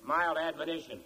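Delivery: measured, earnest appeal to voters; campaign speech closing. Real, not acted. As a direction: close a formal speech in deliberate, spaced phrases.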